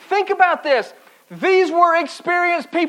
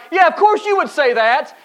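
sarcastic retort; 4 semitones higher than usual. Acted. Retort to holier-than-thou advisers.

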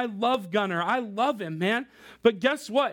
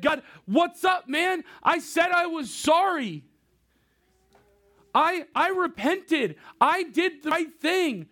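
mock indignant protest; 4 semitones higher than usual. A sinner protesting to God that he apologized, mock exasperated. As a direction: plead like a put-upon kid, acting it out. Acted complaint of David to God.

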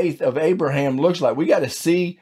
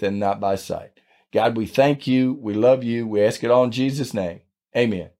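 earnest prayer voice, falling toward the end; 3 semitones lower than usual. Acted. Pastor leading listeners in a closing prayer, sincere and steady. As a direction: pray it gently and sincerely.

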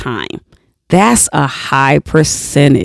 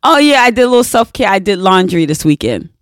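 breezy casual person; much faster than usual. Retold or imitated. Mocking people who call chores self-care, breezy fast. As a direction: toss it off like it's nothing. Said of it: "I have heard people say".

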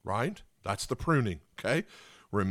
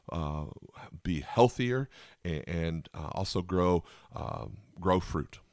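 closing prayer; 3 semitones lower than usual. Acted. Closing prayer for podcast listeners.

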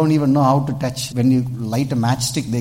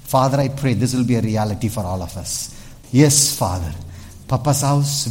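prayer; 3 semitones lower than usual. Acted. Leads prayer.

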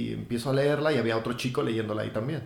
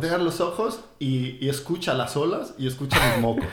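laughing mock meditation; 3 semitones higher, 9 dB louder than usual. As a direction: parody meditation voice, laughing loud.

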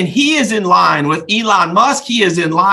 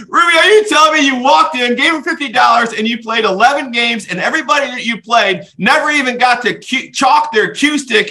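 astonished; 6 semitones higher than usual. Retold or imitated. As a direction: shout it out, amazed and laughing. Astonished reaction to pool story.

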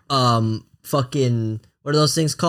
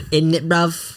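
mock British accent; slower than usual. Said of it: "British people sound like".

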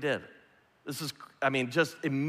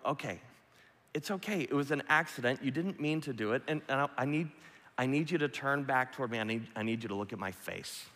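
reassuring. Retold or imitated. Father reassuring ashamed son.

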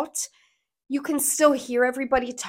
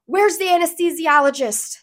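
retold doctor's urgent call, higher pitched; mild mock yell; 5 semitones higher, 3 dB louder than usual. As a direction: call out like a harried doctor, without full screaming. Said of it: "screaming at everybody".

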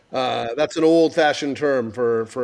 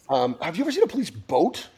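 whispering; 3 semitones higher than usual. Real, not acted. Whispered question to child.

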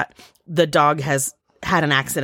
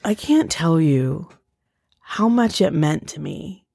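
slow, sincere thanks; heartfelt, slow; slower than usual. Retold or imitated. Husband thanking his wife next morning, slow and sincere. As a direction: quote him slowly and tenderly. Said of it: "He's like".

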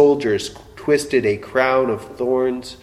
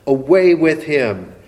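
the second cry a notch louder, urgent; echoing crowd call, a bit louder; 4 semitones higher, 5 dB louder than usual. Retold or imitated. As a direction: push the repeat harder like a crowd. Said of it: "all the people cried out".

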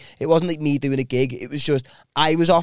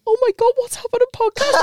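put-on high squeal of a starstruck girl; squealing fan. Starstruck girl squealing at the podcaster. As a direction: shriek it like an excited fan.

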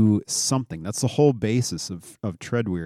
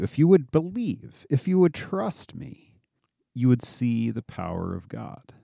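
exasperated Jesus; 4 semitones higher than usual. Retold or imitated. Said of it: "I told you".

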